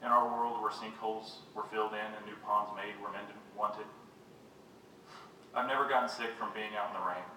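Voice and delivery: measured poetry-reading voice; poem reading. Acted. Poet reads to an audience about rain, measured recital. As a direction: read it as verse, pausing at line ends.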